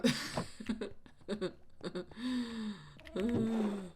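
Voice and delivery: helpless laugh trailing off; drawn-out laughter. Real, not acted. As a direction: laugh it out, then sigh. Laughing at own mistake mid vlog.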